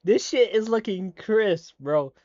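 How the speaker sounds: loud, high, drawn-out excitement; wowed and stretching the words; hyped reaction. Real, not acted. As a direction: burst out in real amazement. Hyped reaction to trailer armor.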